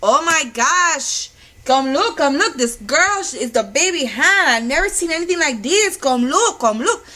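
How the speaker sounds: put-on loud, high, excited Hispanic accent; singsong Hispanic-accented calling out; imitating Hispanic doctor. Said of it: "I had no problem imitating my Hispanics".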